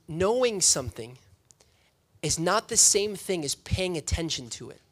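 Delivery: measured, with a pause after "Knowing something"; deliberate emphasis. Real, not acted. Preacher drives home his key point, deliberately paused. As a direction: break "Knowing something" off from "is not the same thing".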